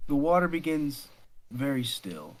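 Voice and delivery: hushed storyteller suspense; suspenseful scene setting. Acted. Game master narrates a false calm.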